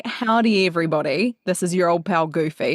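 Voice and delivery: lightly voiced Goofy, old pal greeting; a hint of the cartoon dog Goofy; friendly goofy cartoon greeting; Goofy impression. Shown as a demonstration. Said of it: "I'm gonna say".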